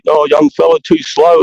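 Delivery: teasing. Retold or imitated. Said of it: "when they pop to give me shit".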